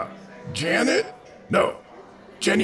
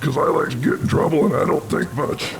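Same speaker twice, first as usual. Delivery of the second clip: lightly voiced dim brute, a bit louder; hint of a dopey big barbarian; dumb barbarian voice; 4 semitones higher, 3 dB louder than usual. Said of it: "To picture this guy, think".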